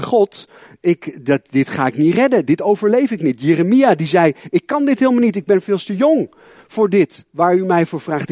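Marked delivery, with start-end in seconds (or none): 4.5-8.3 high, pleading protest; a hint of a panicky youth; young Jeremiah protesting. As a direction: cry out that you're too young.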